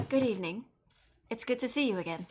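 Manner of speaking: a hint of a British accent; polite greeting, lightly British. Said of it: "uh, British voice again".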